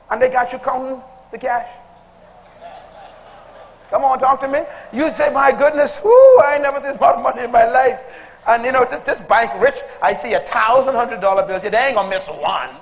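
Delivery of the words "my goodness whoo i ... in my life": mock amazement. Acted bank teller amazed.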